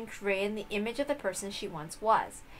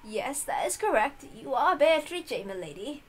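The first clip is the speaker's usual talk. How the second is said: put-on reassuring old servant; 4 semitones higher than usual. Kumasawa confirms.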